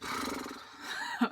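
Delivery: long, airy, fluttering exhale; heavy sigh. Acted. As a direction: blow out a long nervous breath. Nervous pause before confessing first kiss.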